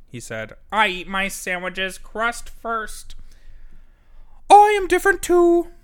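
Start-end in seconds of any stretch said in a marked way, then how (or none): 0.7-3.1 higher, slow odd badger; the badger admits his quirk to the crowd. A narrator's reading. Badger confesses. 4.5-5.7 very high, loud squeak; the hedgehog joins in, very high and loud; squeaky hedgehog. A narrator's reading. Hedgehog speaks up.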